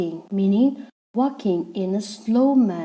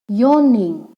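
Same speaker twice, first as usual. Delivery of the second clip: "Yawning" louder, in two distinct syllables; split into syllables; 2 semitones higher, 7 dB louder than usual. Shown as a demonstration. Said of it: "that is again two syllables".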